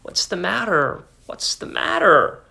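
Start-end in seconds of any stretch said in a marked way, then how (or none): 0.0-1.0 whispered, worried mutter. A narrator's reading. Husband seeing wife cry, muttering in a whisper. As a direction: breathe it out under your breath. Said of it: "he muttered".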